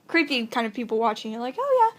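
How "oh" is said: mock casual. Acts out casual excuse to mom.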